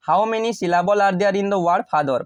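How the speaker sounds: slow exam-question reading. Shown as a demonstration. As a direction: read it out very slowly, word by word. Teacher reads exam question aloud.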